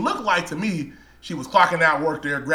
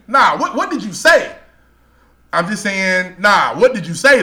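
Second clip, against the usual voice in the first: pressing demand; 2 semitones higher, 5 dB louder than usual. Retold or imitated. Pressing the clerk who insulted him, insistent demand. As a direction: keep pushing him for an answer.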